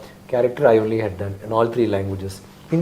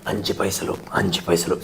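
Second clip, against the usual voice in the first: character voice; 6 semitones lower, 6 dB quieter, much faster than usual. Retold or imitated. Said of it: "It's not like Onion is like".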